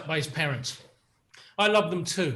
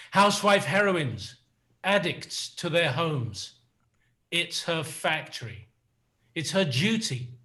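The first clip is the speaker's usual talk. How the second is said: slow, chant-like recital of song lyrics. Acted. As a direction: recite the refrain like a spoken poem. Recites his song lyrics as poem.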